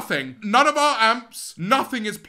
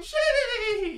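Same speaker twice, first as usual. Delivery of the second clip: soft mock gritty; 13 semitones higher, 4 dB quieter than usual. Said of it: "Yes, I did gritty on the stage".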